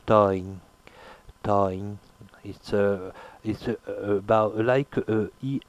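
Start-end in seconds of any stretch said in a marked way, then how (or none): 0.1-2.0 nasalize the vowel of toing. Shown as a demonstration. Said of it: "but it's a semi-vowel".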